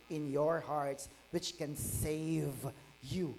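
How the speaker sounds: slow, solemn reading of the verse; scripture reading. Acted. Pastor reading James to the congregation, slow and solemn. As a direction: draw the verse out slowly.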